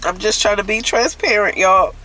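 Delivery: tearful, choked-up confession; real crying. Real, not acted. Woman confessing her shame over wronging her uncle, crying. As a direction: hold back tears while owning the mistake. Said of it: "I'm about to stop crying".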